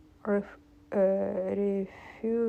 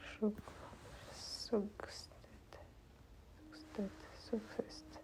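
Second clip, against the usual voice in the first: whispered practice; 19 dB quieter, much slower than usual. Real, not acted. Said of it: "practising the word under breath".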